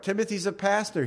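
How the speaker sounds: ordinary delivery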